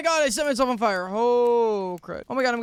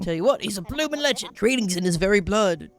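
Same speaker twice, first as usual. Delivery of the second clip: put-on Australian accent. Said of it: "I refuse to apologize for my accent".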